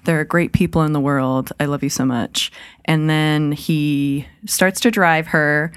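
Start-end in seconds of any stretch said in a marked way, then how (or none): 0.0-2.5 mock grateful woman. Host voicing the stranded woman thanking the trucker, gushing. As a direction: gush with exaggerated gratitude. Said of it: "she's like".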